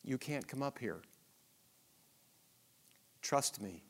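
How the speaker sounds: low, soft and reassuring; God comforting his child, low and soft; tender God voice. Retold or imitated. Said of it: "And he says".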